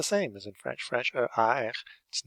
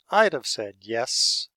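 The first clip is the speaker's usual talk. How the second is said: slow model sentence; 6 dB louder, slower than usual. Shown as a demonstration. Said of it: "so the if I had been".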